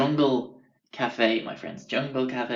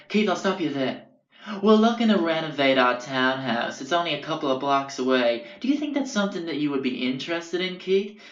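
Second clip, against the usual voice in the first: imitated Long Island boyo pitching a job; Long Island accent; 3 semitones higher than usual. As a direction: cut in with a salesy Long Island voice, rising at the end. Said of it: "real Long Island boyos".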